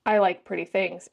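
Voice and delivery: lightly put-on rich baritone; rich lilting baritone. Shown as a demonstration. Reader trying the stranger's deepest voice, a hint of baritone. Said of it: "let me try my richest, deepest, lilting baritone voice".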